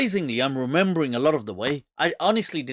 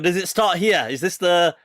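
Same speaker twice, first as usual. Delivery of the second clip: higher, louder, through laughter; laughing; 3 semitones higher, 5 dB louder than usual. Real, not acted. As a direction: barely get the question out for laughing. Teller cracks up at own thought.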